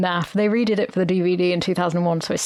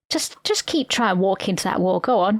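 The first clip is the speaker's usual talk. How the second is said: mocking worm. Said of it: "the worm took the piss".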